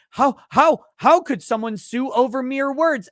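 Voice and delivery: lightly voiced indignant hypocrite; mock indignation. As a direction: parody their outrage. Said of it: "They get all indignant".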